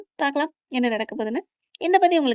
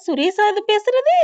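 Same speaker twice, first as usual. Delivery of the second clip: high, loud, drawn-out disbelief; astonished; 9 semitones higher, 5 dB louder, slower than usual. A narrator's reading. Mathi hears Suresh talk kindly, astonished question. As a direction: ask slowly, amazed it is him. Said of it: "ஆச்சரியப்பட்டு போறாங்க".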